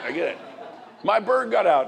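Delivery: ordinary delivery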